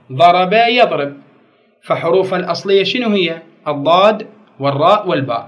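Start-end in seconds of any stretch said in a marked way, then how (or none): 0.1-1.2 ضرب يضرب stretched slowly, syllable by syllable; slow and drawn out. Shown as a demonstration. Teacher slowly spelling out the root for students. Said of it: "أصله شنو؟".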